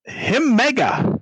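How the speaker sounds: squeaky broken goblin speech. Acted. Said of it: "Does Mel speak goblin?".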